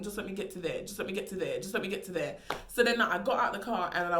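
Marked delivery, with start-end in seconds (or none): 0.0-2.4 quiet anxious prayer. Retold or imitated. Walking from the driver to her door, a quiet plea. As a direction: beg quietly to reach the door. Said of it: "I was thinking".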